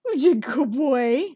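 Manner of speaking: slow, sing-song pet voice; pet talk. Real, not acted. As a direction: praise the cat fondly. Talking to cat.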